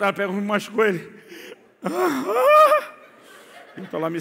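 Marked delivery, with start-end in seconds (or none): 1.8-2.9 a very high, loud, tearful yes; crying boy answering his mother; whimpering child. Retold or imitated. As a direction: whine it like a hurt kid.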